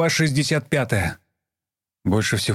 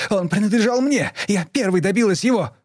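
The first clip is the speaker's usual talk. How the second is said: high, raised yell of a jealous daughter; shouting; 10 semitones higher than usual. A narrator's reading. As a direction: scream it at your mother, possessive. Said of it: "Лиза закричала на неё".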